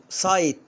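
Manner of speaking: سايت said with a long "ai"; English word site, long i. Shown as a demonstration. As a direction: say سايت with a full "ai" diphthong. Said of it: "طب هنا".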